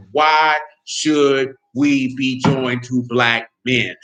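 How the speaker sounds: very slow, low, drawn-out mock quote; mocking her question at a crawl; mocking drawl. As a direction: stretch her words out to ridicule them. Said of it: "you go look at that woman said".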